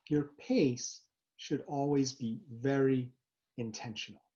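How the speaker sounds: normal talking voice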